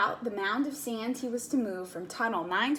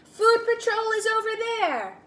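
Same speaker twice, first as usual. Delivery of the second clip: high, loud barked command; stern order; 11 semitones higher, 6 dB louder than usual. Acted. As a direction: point the way with a bark. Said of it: "barked a stern ant".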